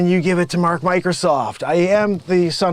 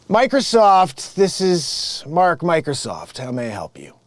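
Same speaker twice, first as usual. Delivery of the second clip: phone greeting. Acted. Scam boss picks up the phone, mild polite rep voice.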